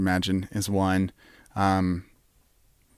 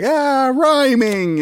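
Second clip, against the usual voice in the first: higher and slow, pleased Ah rhyming; mock Jimmy delight; 13 semitones higher, 3 dB louder, slower than usual. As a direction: play Jimmy charmed by a rhyme, slow. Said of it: "he'll be like".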